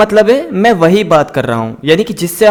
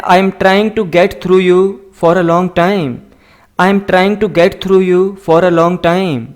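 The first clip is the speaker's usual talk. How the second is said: slow, careful dictation of each word; slow model reading; much slower than usual. Shown as a demonstration. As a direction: read it out slowly for learners to copy. Teacher slowly models English sentences. (धीमी, साफ़ पढ़ाने वाली आवाज़)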